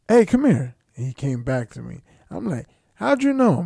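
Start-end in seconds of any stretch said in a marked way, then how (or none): 0.1-0.7 calling someone back. Retold or imitated. Acts out calling coworker back. 2.9-3.6 puzzled surprise. Retold or imitated. Acts out surprised question to coworker.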